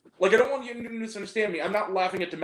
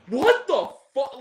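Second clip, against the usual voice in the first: high, loud, drawn-out disbelief; out-loud outburst; 7 semitones higher, 6 dB louder, slower than usual. Retold or imitated. Viewer reacting after nearly doing a spit take, out loud. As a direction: blurt it out, stretched and high. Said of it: "Like, out loud".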